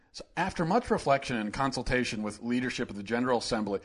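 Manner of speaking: a hint of a droning governor; Mike Pence impression. Mocking the governor's press statement, soft droning read. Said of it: "this is my Mike Pence impression".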